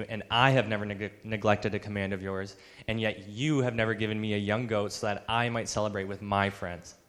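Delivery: mildly indignant elder brother, leaning on "I" and "you"; frustrated, entitled. Acted. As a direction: air a grievance emphatically, easing off at the end. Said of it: "He's frustrated".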